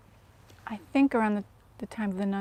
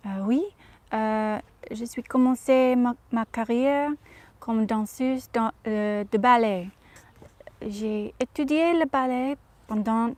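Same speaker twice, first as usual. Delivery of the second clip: a light imitation of an actress giving a French interview, carefully read; Audrey Hepburn speaking French. To the interviewer, a mild hint of the actress's French. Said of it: "as Audrey".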